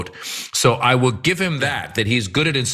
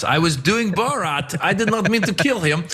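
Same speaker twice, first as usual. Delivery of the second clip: Borat; 5 semitones higher than usual. Pretend. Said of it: "using the Borat defense".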